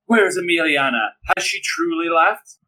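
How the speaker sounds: high, slow hammy plea; dramatic entrance. Acted. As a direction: overact the soap opera question. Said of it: "be dramatic".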